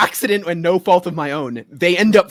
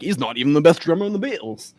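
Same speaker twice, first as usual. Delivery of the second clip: A musician's quip; 6 dB quieter than usual. Retold or imitated. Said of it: "the accent I go for is the one".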